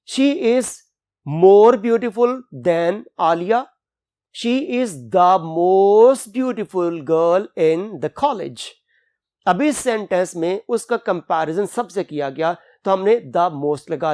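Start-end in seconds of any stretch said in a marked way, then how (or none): 0.1-8.7 slow, deliberate example sentences; reading examples. Shown as a demonstration. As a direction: read each example slowly for the board. Example sentences read slowly. (धीमे उदाहरण वाक्य पढ़ना)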